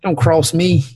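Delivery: mock redneck threat; put-on Southern drawl. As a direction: warn them off as a cartoon redneck. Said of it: "redneck voice".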